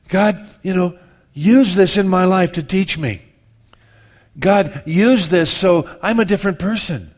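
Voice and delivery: slow, pleading prayer fading to a hush at the end; a touch of a heartfelt prayer; earnest prayer. Pretend. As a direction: pray it like you mean it. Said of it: "three things they think God can do".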